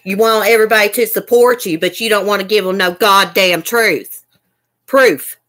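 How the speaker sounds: really worked up, demanding; mad. Real, not acted. Streamer demanding proof from her rival, mad. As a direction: press her angrily for the truth. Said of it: "Makes me mad".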